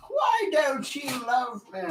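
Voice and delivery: put-on high, slow wail slipping into old man; failed Roger Rabbit. Shown as a demonstration. Man attempting a cartoon rabbit, high old-man wail. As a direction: plead high and drawn-out, badly faked. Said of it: "starts to sound like an old man".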